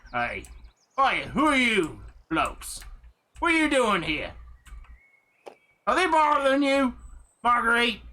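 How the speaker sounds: gruff cabin man. Acted. Game master voices the cabin man confronting the intruders. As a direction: challenge the strangers at your door. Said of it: "a guy coming out of the cabin".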